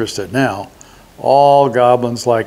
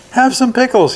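goblin voice; 12 semitones higher than usual. A narrator's reading. Fat goblin offered, voiced high.

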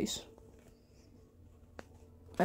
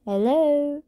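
whisper; 6 semitones higher, 4 dB louder than usual. Pretend. Sneaking up, calling out.

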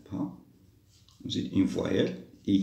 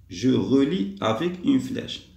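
slow, deliberate instruction reading; slow dictation; 2 semitones higher, 4 dB louder, slower than usual. Shown as a demonstration. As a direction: read slowly, word by word. Teacher reads out the instruction. (consigne lue lentement)

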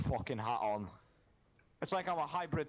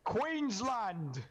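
Queensland! called out high, a hammed-up Australian cheer; mock Aussie yell; 9 semitones higher than usual. Gamer randomly yelling a state name, mock Australian cheer. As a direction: belt out Queensland like a rowdy Aussie fan. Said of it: "I don't know why I felt like saying that".

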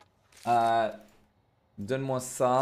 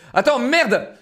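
panicking gamer; 4 semitones higher than usual. Real, not acted. Rushing game tasks, swearing.

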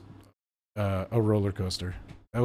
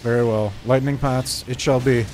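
mock formal; 4 dB louder than usual.

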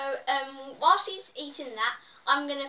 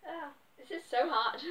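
laughing; 4 dB quieter than usual. Real, not acted. Struggling to open packet, laughing.

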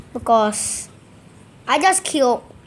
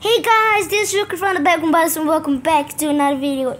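hammed-up YouTube intro, much higher; youtuber intro voice; 4 semitones higher than usual. Shown as a demonstration. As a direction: pitch it up like a cheery video intro. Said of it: "always my voice has been like".

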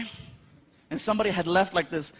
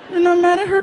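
put-on higher, louder anxious child; worried kid; 9 semitones higher, 7 dB louder than usual. Son asking dad in a high, louder worried kid voice. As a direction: ask it like a worried little boy.

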